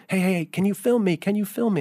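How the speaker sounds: mock call from the beach up the cliff; retold yell. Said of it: "he yells up to me".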